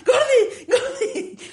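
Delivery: very high mock shriek; panicked. Father on the bed calling his wife, panicked. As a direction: squeal it out, hammed-up terror.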